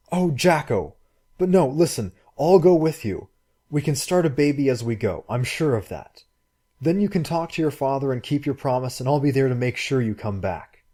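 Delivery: put-on the girl pleading eagerly; eager girl's voice. Girl's voice in story.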